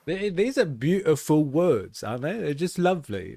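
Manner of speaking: mock delight at the beautiful words; sarcastic praise. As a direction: gush over it with heavy sarcasm.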